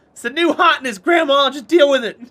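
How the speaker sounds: loud, high mock taunt; teasing shout. Teasing grandma about her music with a loud, high taunt. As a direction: yell it at grandma, grinning.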